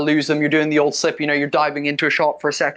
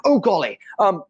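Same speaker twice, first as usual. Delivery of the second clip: lightly voiced fussy old gent in a hurry; a touch of a flustered host checking his watch; flustered Leopold. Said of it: "and he goes".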